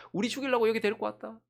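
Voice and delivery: imitated crowd complaint, mounting; mock complaining. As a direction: act out grumbling that builds to an outcry. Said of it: "하나님 원망하면서".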